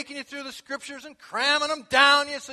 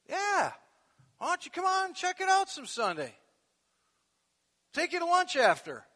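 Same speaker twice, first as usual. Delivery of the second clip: eager invitation; 3 semitones higher than usual. Retold or imitated. Cheerful invitation acted out.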